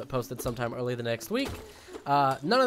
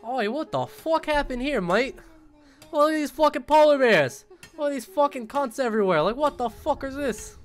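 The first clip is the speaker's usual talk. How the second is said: hammed-up Australian accent, much higher and loud; mock Aussie bloke; 11 semitones higher, 4 dB louder than usual. Aussie cracking a Fosters over dead polar bears, mock Australian accent. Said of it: "just being like".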